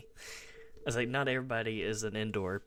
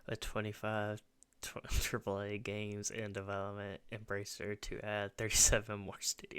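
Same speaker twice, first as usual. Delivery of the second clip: whispered giggle reading it; laughing whisper. Real, not acted. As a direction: giggle it under your breath. Laughing while reading a headline.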